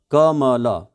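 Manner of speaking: कमल sounded out in separate pieces; syllable by syllable. Shown as a demonstration. Teacher repeating the name to count it, syllable by syllable. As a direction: spell out the sounds of क-म-ल. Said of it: "syllable हैं दो".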